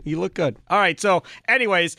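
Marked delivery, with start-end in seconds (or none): 0.0-0.6 quieter, settled reassurance; softer compliment. Real, not acted. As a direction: say it gently, meaning it.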